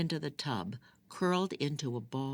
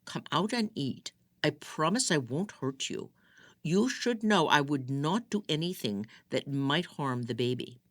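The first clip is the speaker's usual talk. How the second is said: gentle coaxing; 3 semitones higher than usual. Acted. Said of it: "more gently through the door".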